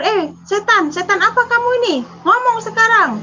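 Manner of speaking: retold shout, high and fast; defiant challenge. Woman challenging the ghost in her bedroom, defiant mock shout. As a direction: dare the ghost to answer, unafraid. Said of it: "saya tantang waktu itu, saya tidak takut".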